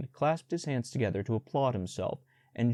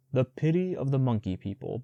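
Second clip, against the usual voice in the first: scornful snort; 3 semitones higher than usual. Acted. Bear scoffs at the boy's monkey friends, snorting contempt. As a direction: spit out the monkeys' pity with disdain. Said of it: "Baloo snorted".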